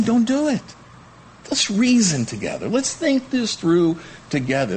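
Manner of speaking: high, urgent plea; God pleading. Retold or imitated. God pleading with rebels, high and urgent. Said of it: "He's saying".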